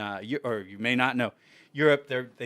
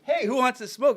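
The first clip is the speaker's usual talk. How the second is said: calling out; 10 semitones higher, 3 dB louder than usual. Retold or imitated. Calling out to the group.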